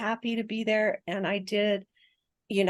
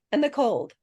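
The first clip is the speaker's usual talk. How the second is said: laughing retelling; 7 semitones higher, 7 dB louder, slower than usual. Retold or imitated. Husband fiddling tub taps.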